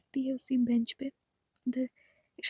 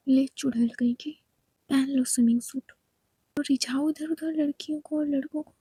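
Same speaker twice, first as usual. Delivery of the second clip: insulting jab. Acted. Khushbu hurls insult with bag.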